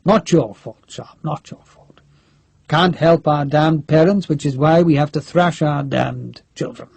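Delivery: lightly voiced crusty general, drily joking; a hint of a blustery senior officer holding forth; Major General Nairn. General jokes with the rifleman.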